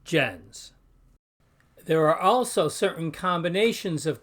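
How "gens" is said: gens ending in a Z, "jenz"; final S as Z. Shown as a demonstration. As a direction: Latin gens, S voiced as Z. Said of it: "the S at the end is Z like".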